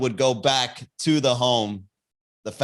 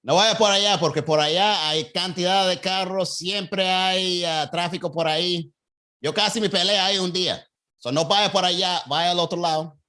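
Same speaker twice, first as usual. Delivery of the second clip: slightly raised Cuban Spanish warning; Cuban accent; 2 semitones higher than usual. Retold or imitated. Cuban local warning a driver about traffic, lightly raised. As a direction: steer them off the busy road, Cuban style. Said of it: "my Cuban accent was on point".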